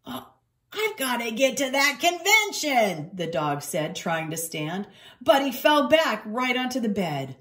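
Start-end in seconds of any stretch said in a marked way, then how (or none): 0.0-3.1 a touch of high, strained urgency; hammed-up anxious groan; urgent hurt dog. Injured dog struggles to stand.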